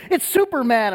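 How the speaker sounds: imitating thrilled kids, high and loud; excited kids' shout. Kids see him from the playground, excited shout. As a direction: call out like children spotting their hero.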